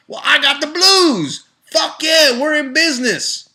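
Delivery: high, loud, delighted whoop; gleeful cheer. Pretend. Making a smoothie with blues fruit, whooping loud and high. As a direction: celebrate like the party just started.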